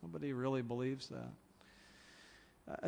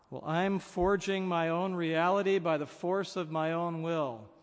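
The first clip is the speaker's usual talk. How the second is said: lightly acted self-assertion, louder and higher; imagined existentialist; 3 semitones higher, 5 dB louder than usual. Existentialist answering the preacher about meaning, a forceful mock declaration. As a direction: declare it like a self-made believer. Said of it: "will come back and say".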